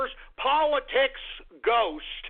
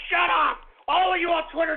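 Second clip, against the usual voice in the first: mock yell; 4 semitones higher than usual. Yelling at Twitter critics.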